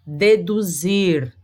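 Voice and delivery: "Deduzir" very slowly, syllable by syllable; slow teacher's demo of "Deduzir"; every consonant sounded. Shown as a demonstration. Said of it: "um som de cada uma das consoantes".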